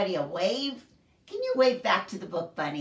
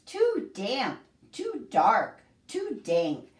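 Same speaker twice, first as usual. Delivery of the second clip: mouse squeaks; 4 semitones higher, 3 dB louder, slower than usual. Acted. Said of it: "Mouse squeaks".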